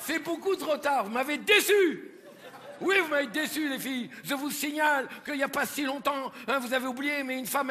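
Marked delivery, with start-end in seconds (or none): 0.0-4.1 mock disappointment. Mock scolding the audience.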